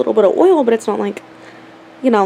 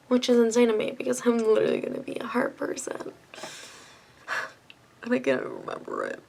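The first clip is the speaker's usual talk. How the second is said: whispering; 8 dB quieter than usual. Real, not acted. Whispered aside about forgetting.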